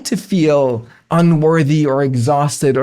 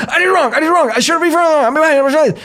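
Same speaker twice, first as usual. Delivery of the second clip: silly high voice; 10 semitones higher, much faster than usual. Shown as a demonstration. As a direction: chirp it like a chipmunk. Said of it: "saying them in a silly voice".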